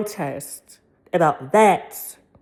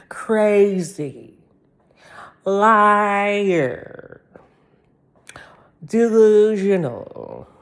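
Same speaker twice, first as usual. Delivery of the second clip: whispered; much slower than usual. Pretend. Listing insults she hears.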